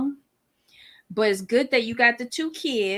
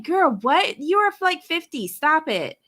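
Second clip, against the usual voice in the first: incredulous retort; 5 semitones higher than usual. Retold or imitated. Mock reply to cast member.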